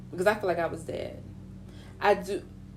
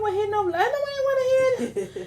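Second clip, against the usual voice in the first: laughing. Retold or imitated. Mocking her own denial.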